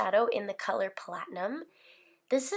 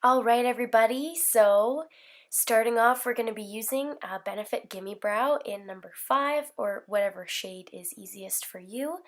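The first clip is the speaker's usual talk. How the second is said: hoarse from a cold. Real, not acted. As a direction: speak through a sore throat. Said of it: "a very hoarse version of a man".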